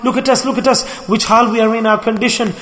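pleading scream. Retold or imitated. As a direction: beg for rescue from the fire. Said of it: "the first group will shriek out and scream".

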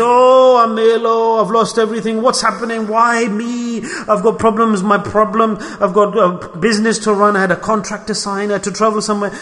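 a mock complainer's lament; complaining whine. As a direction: moan about everything going wrong. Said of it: "Or we're complaining".

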